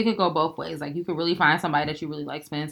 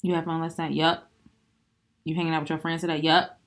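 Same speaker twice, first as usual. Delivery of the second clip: curt pissed replies. Retold or imitated. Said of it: "it's just gonna be like".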